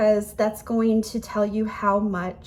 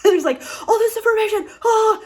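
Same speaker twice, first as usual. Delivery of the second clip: laughing; 12 semitones higher, 7 dB louder than usual. Real, not acted. Overwhelmed, laughing exclamation.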